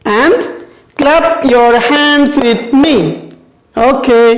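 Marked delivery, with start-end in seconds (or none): 0.0-3.0 slow model line for pupils. Shown as a demonstration. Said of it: "Repeat after me".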